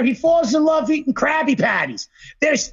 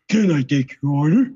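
Squidward voice; 9 semitones lower than usual. Retold or imitated. Quoting Squidward's first words.

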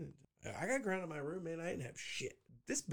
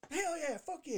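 much higher, gleeful whoop of imitation; mock exuberance; 13 semitones higher than usual. Host imagining a man being hanged, mock exuberant. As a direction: cheer it like a daredevil about to leap.

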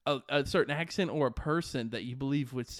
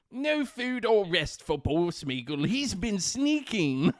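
regal British Gollum; 3 semitones higher than usual. Acted. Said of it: "a very regal over the pond sound".

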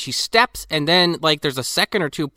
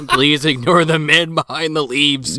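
laughing mock narration; slower than usual. Joking narrator line, laughing.

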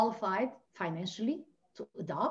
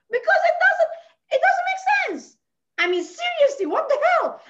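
sobbing and shouting, much higher and louder; crying shout; 7 dB louder than usual. Real, not acted. A childless wife crying out against her fate, sobbing shout. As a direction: break down while protesting it makes no sense.

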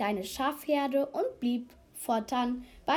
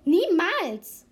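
loud, higher exclamation of refusal; called out; 5 semitones higher, 6 dB louder than usual. A narrator's reading. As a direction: call it out as an emphatic no. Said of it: "rief der Erstschäfer".

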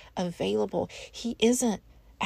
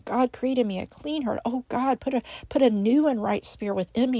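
raised, pleading plea to God; crying out to God; 3 semitones higher, 4 dB louder than usual. Retold or imitated. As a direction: lift the prayer up as a heartfelt mock cry. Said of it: "he was crying out".

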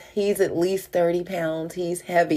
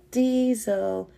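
calling nicer; 4 semitones higher, 3 dB quieter than usual. Retold or imitated.

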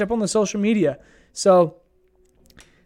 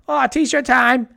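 slow, higher mock Jersey Shore accent; 6 semitones higher, much slower than usual. Vlogger imitating Jersey Shore guys for viewers, slow, higher hammed-up Jersey accent. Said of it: "they have the Jersey accent".

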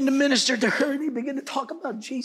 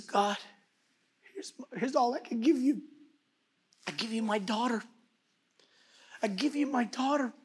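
hushed surrender; 5 dB quieter than usual. Acted. Grieving father prays, giving daughter.

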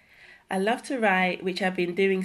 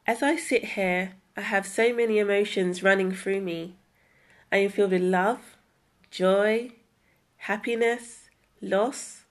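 heartfelt spoken word poem; poem reading. Acted. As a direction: read it like a personal poem. Reads her creative piece.

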